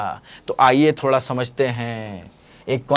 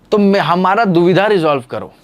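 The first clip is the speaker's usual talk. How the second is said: higher, louder plea; pleading creature; 4 semitones higher, 5 dB louder than usual. Retold or imitated. Ecosystems begging their teacher to settle a quarrel, pleading.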